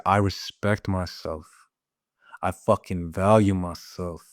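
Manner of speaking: steady, firm declaration with energy behind it; firm self-respect. Pretend. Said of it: "you feel the energy?".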